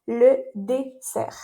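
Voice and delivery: "Le dessert" said slowly, with a clear s sound, not a z; slow teaching "dessert", crisp unvoiced s. Shown as a demonstration. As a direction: spell out "dessert" slowly, its middle letter a hissed s. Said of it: "cuidado con la pronunciación".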